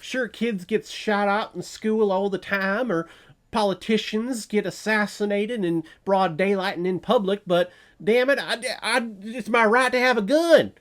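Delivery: high, loud indignant ranting, building as it goes; mock gun-rights rant. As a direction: rant like an outraged gun owner defending his rights. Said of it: "Do you hear how stupid that sounds".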